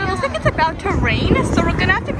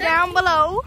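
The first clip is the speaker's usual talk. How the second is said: light Western twang; casual cowboy-style Western accent. Pretend. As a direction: put on a playful Western accent. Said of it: "my Western accent".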